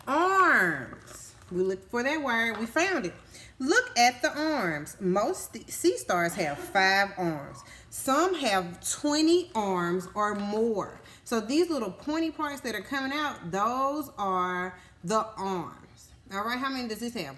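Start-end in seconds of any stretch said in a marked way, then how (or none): 3.6-11.0 slow, louder storybook reading; reading to children. Acted. Teacher reading sea star facts to kids, slow and emphatic. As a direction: stretch each word out for the class. Reading book page aloud.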